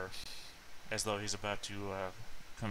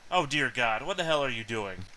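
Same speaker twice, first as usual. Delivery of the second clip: alarmed bystander; 3 semitones higher, 4 dB louder than usual. Acted. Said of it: "male voice from behind you".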